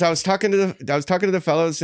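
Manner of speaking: put-on slightly Irish stab at a musician's accent; attempted accent of the musician. Storyteller resumes the band member's quote, faintly Irish accent. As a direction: lightly imitate the musician, veering Irish. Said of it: "that is Irish".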